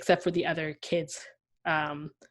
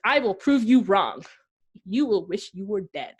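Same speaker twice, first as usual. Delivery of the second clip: mock menacing vow; 2 semitones higher, 5 dB louder than usual. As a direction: playfully threaten whoever provoked you. Acts out provoked vow of revenge.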